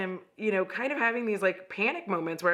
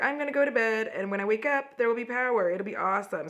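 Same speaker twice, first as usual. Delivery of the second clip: hopeful optimism; 3 semitones higher, faster than usual. Retold or imitated. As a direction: sing out the optimistic plan. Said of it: "I am an optimist like that".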